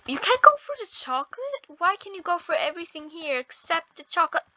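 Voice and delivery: high-pitched, incredulous protest; indignant disbelief. Real, not acted. Player barred from the chocolate, indignant disbelief. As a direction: protest it high, as a baffled question.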